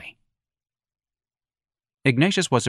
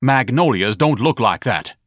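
indignant; 3 semitones higher, 4 dB louder, slower than usual. Acted. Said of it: "Ignatius said".

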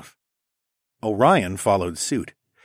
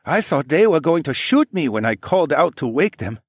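put-on higher, lightly accented man; Sun He voice; 6 semitones higher, 4 dB louder than usual. A narrator's reading. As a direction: give him a polite, formal lilt. Sun He character voice.

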